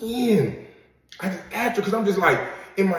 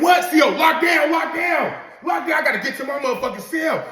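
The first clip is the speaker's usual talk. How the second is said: higher, louder hurried retold yell; panicked rush; 8 semitones higher, 3 dB louder than usual. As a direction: hurry off the phone in alarm. CO calls lockdown mid-call.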